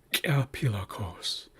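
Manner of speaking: slow, whispered kia pilakos, regular p in pilakos; careful Lushootseed word. Shown as a demonstration. Teacher to class, slow whispered demo of kia pilakos. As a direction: sound out kia pilakos softly for learners. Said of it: "It should be a regular P".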